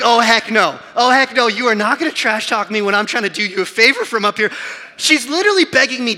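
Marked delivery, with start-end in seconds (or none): 0.0-4.5 indignant retort. Retold or imitated. Indignant retort to daughter's taunt.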